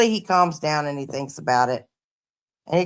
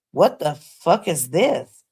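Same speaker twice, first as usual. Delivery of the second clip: imitating son; slower than usual. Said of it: "he was like".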